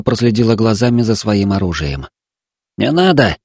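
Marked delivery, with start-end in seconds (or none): 2.8-3.4 a soothing, higher plea; calm her down gently; as friendly as possible. Acted. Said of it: "попытался он сказать ей как можно дружелюбнее". (как можно дружелюбнее)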